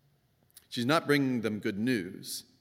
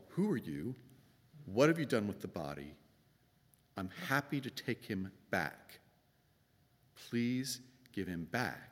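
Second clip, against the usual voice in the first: soft pleading Mary; 6 dB quieter than usual. Acted. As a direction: beg quietly for the body back.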